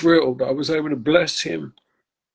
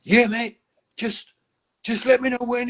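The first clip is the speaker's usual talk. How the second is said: put-on English country accent, pitched higher; 9 semitones higher than usual. The speaker's country accent offering to help out. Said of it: "in his country accent".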